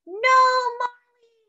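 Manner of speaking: high, loud cry of alarm as Mommy; mother shouting at the runaway dog; cried out. Acted. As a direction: call the dog off, urgently. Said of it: "cried Mommy".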